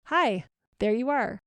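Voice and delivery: friendly hello with a lilting "hi"; friendly greeting. Shown as a demonstration. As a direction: greet yourself like a dear friend. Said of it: "in a really friendly voice".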